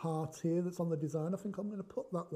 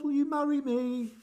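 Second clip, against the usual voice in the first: much higher and louder, bursting with joy; spring the good news on them; gleeful "Surprise" shouted high; excited surprise; 7 semitones higher, 6 dB louder than usual. Acted. Acted proposal.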